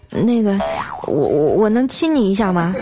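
hesitant, stammered request; plucking up courage. Retold or imitated. Shy man asking his date for a kiss, nervous and halting. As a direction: stumble shyly into the question. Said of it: "我鼓起勇气啊".

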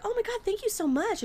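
high-pitched mock gushing thanks. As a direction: squeal out thanks, imitating an over-grateful woman. Acting the bartender's gushing thanks.

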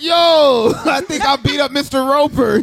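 shouted through laughter; laughing disbelief. Retold or imitated. Telling friends he knocked out an old man, laughing shout. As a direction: yell it while cracking up.

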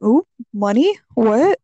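high, loud, eager; excited. Retold or imitated. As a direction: perk up at money. Excited retold reaction.

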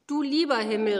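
exclaiming. A narrator's reading. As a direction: cry out in delight. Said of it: "rief die alte Dame".

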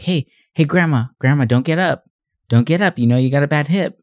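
high-pitched call across to grandma; urgently fussing, play-acted; mock concern. Comedian pretends to call to grandma.

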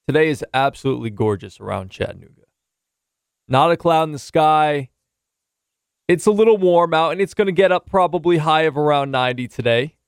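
light TV weatherman read; breezy forecast delivery, lightly voiced; weather report. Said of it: "as I do my best weatherman impression".

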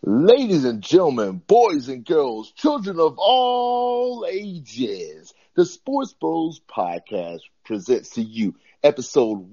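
booming circus ringmaster voice. Pretend. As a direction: announce it under the big top. Circus-style show opening.

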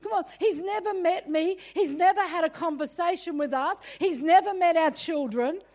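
mock indignation; indignant. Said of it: "And I'm like".

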